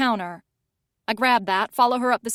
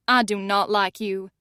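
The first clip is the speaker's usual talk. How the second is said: icy. Acted. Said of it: "she says icily".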